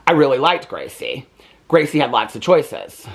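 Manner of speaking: slow, deadpan, overly serious school report; mock serious book report. Kid faking a book report she never read, mock serious and slow. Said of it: "like, very serious in this review".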